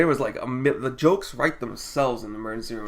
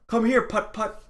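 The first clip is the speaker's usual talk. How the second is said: lightly mocking high-pitched call; imitated daughter calling; 7 semitones higher than usual. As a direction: quote her beckoning in a raised pitch. Daughter calling mother, retold.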